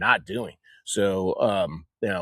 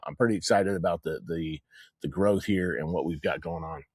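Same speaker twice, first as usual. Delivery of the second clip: talking around a cigar; cigar in mouth; 4 semitones lower than usual. Real, not acted. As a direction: speak with a cigar between your lips. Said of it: "my cigar keeps going out".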